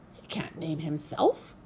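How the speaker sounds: squawky goose voice, rising at the end; Loudwing. A narrator's reading. Goose scoffing at the robot's question, squawking. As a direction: squawk it in disbelief. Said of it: "squawked Loudwing".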